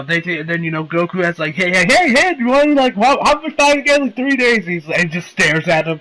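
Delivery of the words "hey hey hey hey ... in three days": high, excited imitated request; eager pestering. Goku begs the departing fighters for a fight, imitated eagerness. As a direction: imitate someone pestering for a rematch.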